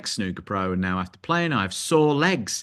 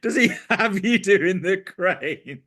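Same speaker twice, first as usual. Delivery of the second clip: laughing; 4 semitones higher, slower than usual. Acted. Joking about Mister Miyagi teaching.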